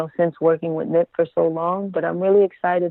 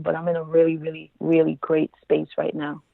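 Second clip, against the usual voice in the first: flat monotone voice. Real, not acted. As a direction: say it flat, no lift. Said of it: "I know I sound very monotone".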